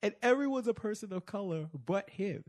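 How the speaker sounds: high, loud, laughing through words. Real, not acted. Host retelling the scene, laughing hard. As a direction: speak through a fit of laughter.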